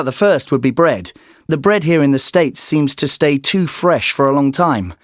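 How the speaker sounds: ordinary delivery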